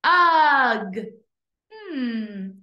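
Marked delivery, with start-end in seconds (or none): 0.0-1.0 loud, drawn-out "Ugh"; stretched vowel sound. Shown as a demonstration. Teacher isolating the sound for pupils, stretched vowel. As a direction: hold the vowel in "Ugh", then close on g. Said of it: "What sound do you hear".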